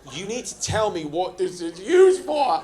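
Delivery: lightly voiced agent, pressing; a hint of a stern British officer; insistent agent.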